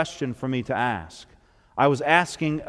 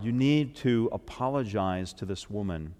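hushed voice of conviction; 5 semitones lower, 8 dB quieter than usual. Retold or imitated. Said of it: "the Lord said to me".

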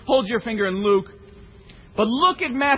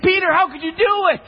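frustrated; 5 semitones higher than usual. Real, not acted. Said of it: "I'm irritated".

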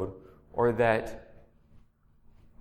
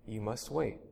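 soft, hushed reply, much softer; quiet; 8 dB quieter than usual. A narrator's reading. The master replying once again, quiet and soft. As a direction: say it softly, almost under the breath. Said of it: "Then quietly, softly".

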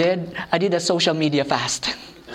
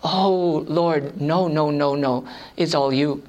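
humble protest; 5 semitones lower, slower than usual. Retold or imitated. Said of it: "I'm thinking".

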